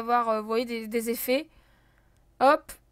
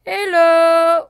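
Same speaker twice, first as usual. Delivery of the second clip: sing-song hello; 3 semitones higher, 10 dB louder than usual. Pretend. Greeting game character.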